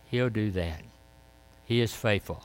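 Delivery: ordinary talk, nothing marked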